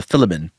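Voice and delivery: "Philemon" as FILL-uh-mun; South African pronunciation. Retold or imitated. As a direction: say "Philemon" with a short first i. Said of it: "a guy from South Africa who taught".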